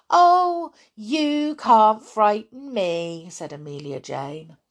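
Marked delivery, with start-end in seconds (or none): 0.1-3.3 scoffing boast. Acted. Amelia boasts to the toys.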